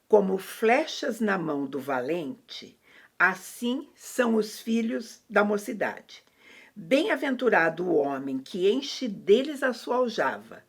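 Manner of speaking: measured, solemn Bible verse reading; reciting scripture to listeners. A narrator's reading. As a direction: read the psalm out slowly, phrase by phrase. Reads a Bible psalm aloud.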